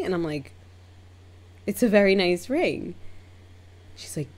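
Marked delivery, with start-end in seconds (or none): 1.7-2.9 higher-pitched, careful compliment; mild, high reassurance; polite placating. Retold or imitated. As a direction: insist pleasantly, pitch lifted. Placating the offended client.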